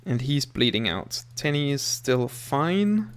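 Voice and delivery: loud alarmed calling out; man down shout. Real, not acted. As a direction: raise the voice in crisis. Colonists bleeding in fight.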